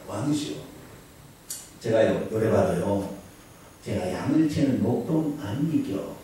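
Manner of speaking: slow, soft Gyeongsang dialect line. Acted. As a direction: drawl it softly in a Gyeongsang accent. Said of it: "경상도 말로". (경상도 사투리로 느리고 조용하게)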